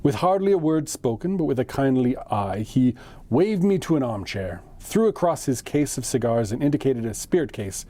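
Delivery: measured audiobook-style reading; story narration. A narrator's reading. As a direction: read a classic tale aloud, phrase by phrase. Reads the story aloud.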